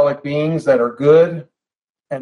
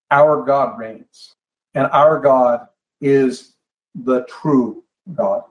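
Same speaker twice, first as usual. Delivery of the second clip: measured, reverent statement of faith; solemn declaration; 2 semitones lower, slower than usual. Retold or imitated. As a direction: declare it slowly to the pagan world. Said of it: "declaring to the pagan world".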